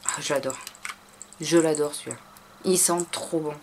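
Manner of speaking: soft, low, fond; tender. Real, not acted. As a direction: murmur it lovingly. Loves this scent. (tendre et doux)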